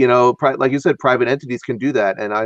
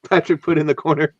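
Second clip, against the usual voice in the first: laughing apologetically while talking; kind gentle laugh; 4 semitones higher than usual. Real, not acted. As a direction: giggle through the apology. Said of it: "Oh, that's funny".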